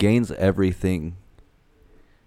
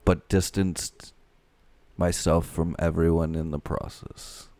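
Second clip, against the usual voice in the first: lightly voiced oilman telling his own story; measured first-person oilman impression; a hint of an old-time oil baron's oratory; Daniel Plainview voice. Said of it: "can you do his voice again?".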